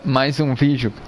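laughing through hiccups. Real, not acted. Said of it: "perdão, tô com soluço". (rindo com soluço)

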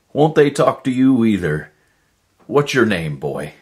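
high, loud, eager questions; happy to the dog. Acted. Lonely man asks the dog questions, high and eager. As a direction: chat excitedly with the new friend.

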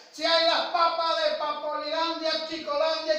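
high, drawn-out market call; shouted vendor's cry. Retold or imitated. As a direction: imitate a street seller hawking potatoes. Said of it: "que gritaba y la gente".

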